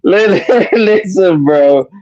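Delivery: laughing, can't keep a straight face. Real, not acted. Caller laughing through his own point. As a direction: tries to talk through giggles. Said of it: "you can't even say it with a straight face".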